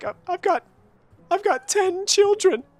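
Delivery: very high, weepy, tearful, stammering crying voice. Voicing a crying farmer telling of his children: put-on crying voice. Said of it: "he's kinda like".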